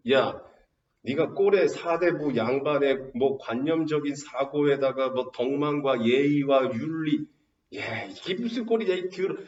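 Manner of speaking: drawn-out mock scolding, rising in pitch at the end; lightly voiced tiger taking a scholar to task. Tiger berates the hypocritical scholar it found, scolding. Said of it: "그래서 호랑이가 꾸짖는 거야".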